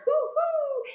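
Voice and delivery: high, loud hoots; hollering owl. A narrator's reading. Owl outraged by the sneeze, high holler. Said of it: "who hollered".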